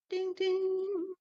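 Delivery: high sung ding-ding like a little bell; playful high bell imitation; mock bell ding. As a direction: chime it out like a bell. Mock bell after fixing stream.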